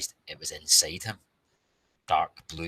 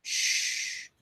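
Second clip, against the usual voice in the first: urgent unvoiced shush; warning shush; 4 dB louder than usual. A narrator's reading. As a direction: hush them urgently. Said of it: "Anna warned".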